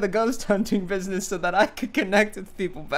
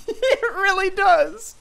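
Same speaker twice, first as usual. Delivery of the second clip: mock squeaky agreement; slower than usual. Teasing the bad audio.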